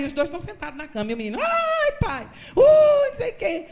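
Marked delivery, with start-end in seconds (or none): 1.4-3.7 very high, loud mock wailing; fake crying boy. Boy faking screams for his mother while father pretends to punish him, high loud mock wail. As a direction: ham up a staged beating cry. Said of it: "Grita aí".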